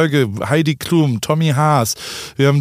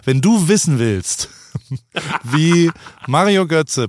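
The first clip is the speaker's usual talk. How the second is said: ordinary talk, nothing marked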